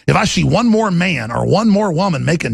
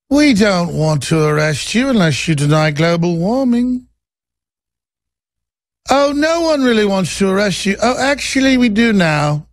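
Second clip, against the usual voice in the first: tag. Acted. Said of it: "almost the calm, lazy eyes".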